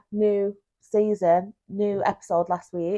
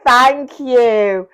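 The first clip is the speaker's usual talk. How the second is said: capital letters; 3 semitones higher, 7 dB louder than usual. Retold or imitated. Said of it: "in capital letters".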